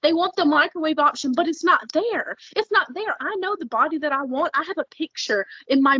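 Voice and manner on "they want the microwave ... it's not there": fired-up rant rising higher; really heated, pushing each point; worked up. Real, not acted. Worked up ranting about people wanting quick fixes. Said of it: "I'm worked up, obviously".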